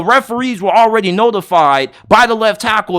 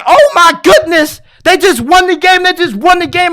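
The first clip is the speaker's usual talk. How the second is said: higher, excited retold cheer; hyped reaction; 6 semitones higher, 3 dB louder than usual. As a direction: relive the winning moment, thrilled. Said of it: "And I'm like".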